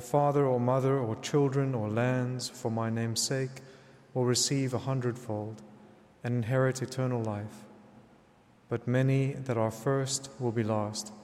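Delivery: solemn, measured scripture proclamation; Gospel reading. Acted. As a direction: proclaim it as at Mass.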